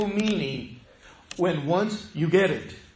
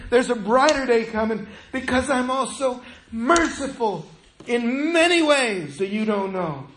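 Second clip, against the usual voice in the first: higher and louder, a fervent divine promise; fervent God voice; 5 semitones higher, 3 dB louder than usual. Acted. Preacher voicing God to the suffering congregation, fervent and raised. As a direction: proclaim God's words with urgent encouragement.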